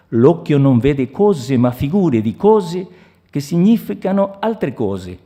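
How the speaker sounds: measured, declaimed Italian prose; literary reading in Italian. Acted. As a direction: read the Italian passage aloud with deliberate phrasing. Reads Italian literary passage aloud.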